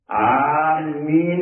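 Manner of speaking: آمین with drawn-out aa and double m; doubled-m amen. Shown as a demonstration. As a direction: hold the mm in آمین before the long ee. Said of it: "آمین ایک دوسرا لفظ ہے".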